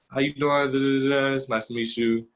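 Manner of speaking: mimicking Meg's Texas greeting, lightly; Texas accent. Telling the interviewer how Meg greeted her, in a light Texas accent. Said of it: "like, Texas accent".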